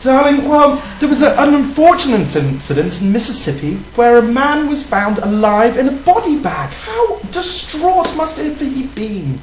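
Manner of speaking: prim English lady voice. Pretend. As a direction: tell it like a proper lady. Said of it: "tell me more in your lady voice".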